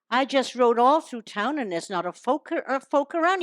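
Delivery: put-on American cowboy voice; lightly voiced American Western accent. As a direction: play a puzzled cowboy in mock American. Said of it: "this is an American accent now".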